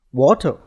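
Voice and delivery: "water" in a neutral accent. Shown as a demonstration. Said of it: "In a neutral accent".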